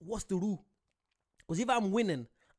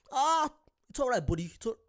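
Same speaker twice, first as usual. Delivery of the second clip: put-on higher, louder go at an American accent; attempted American accent; 5 semitones higher, 5 dB louder than usual. Imagining a friendly handshake after a fight, attempted American accent. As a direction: have a try at sounding American. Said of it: "I'm trying to do an American accent".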